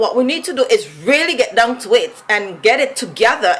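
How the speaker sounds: lilting Vincentian accent, pitch swinging; singsong Vincy accent. Shown as a demonstration. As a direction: let the Vincy accent come out like singing. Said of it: "my accent comes out like singing".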